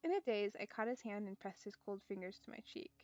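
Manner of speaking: calm storytelling read; story narration. Acted. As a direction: read the novel aloud evenly. Reads visual novel aloud.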